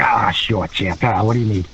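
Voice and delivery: low, casual and obliging; Roddy. Retold or imitated. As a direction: lightly imitate an easygoing veteran. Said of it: "he was pretty, pretty laid back".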